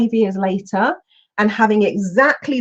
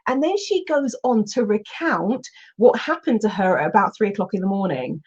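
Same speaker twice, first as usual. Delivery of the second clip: ordinary delivery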